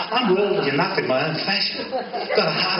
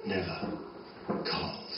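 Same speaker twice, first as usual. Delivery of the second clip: slow, hushed spoken-word poem; poem recital; 8 semitones lower, 7 dB quieter, slower than usual. Acted. Poet opening his reading with hushed, slow lines. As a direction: lay each image down softly and slowly.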